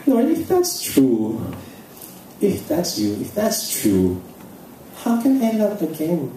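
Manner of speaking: high, slow laughing protest; slow giggly question to the Lord; laughing disbelief. Retold or imitated. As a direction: laugh at the idea. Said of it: "sabi ko".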